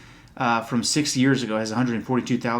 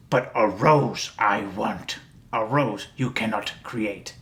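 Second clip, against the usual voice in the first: Yoda voice; 2 semitones lower, slower than usual. Retold or imitated.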